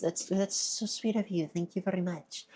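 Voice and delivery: thrilled streamer thanking a donor; delighted thanks. Real, not acted. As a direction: gush with surprised delight. Surprise bits donation, gushing thanks.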